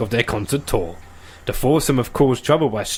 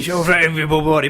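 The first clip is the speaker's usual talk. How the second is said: mock tabloid shout; 2 semitones higher, faster than usual. Mocking tabloid tone, loud.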